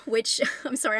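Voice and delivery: real laugh breaking into the words. Real, not acted. Reviewer apologising to viewers about metaphors, laughing. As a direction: apologise through a small laugh. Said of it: "I'm laughing".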